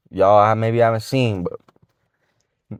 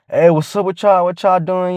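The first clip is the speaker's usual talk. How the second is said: overeager, higher-pitched hey to a group; cringy greeting; 6 semitones higher than usual. Acted. Friend going up to girls, cringy high-pitched greeting. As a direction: pitch it up into a cheesy hello. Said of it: "You don't gotta be cringy".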